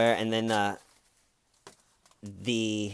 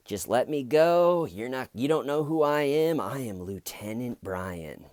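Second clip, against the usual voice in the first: put-on drunk whining; 3 semitones higher than usual. Drunk driver pleading with the highway patrol, whiny. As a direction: whine like a sloppy drunk begging to go. Drunk man begging to be released.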